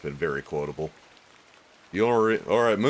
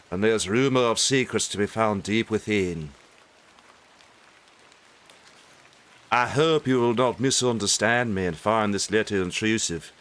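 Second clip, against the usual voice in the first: English accent. Shown as a demonstration. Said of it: "like, an English accent".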